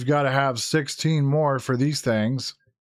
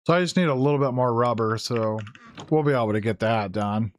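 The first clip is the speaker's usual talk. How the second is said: hoarse, losing voice; raspy voice from talking all day. Real, not acted. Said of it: "very raspy right now".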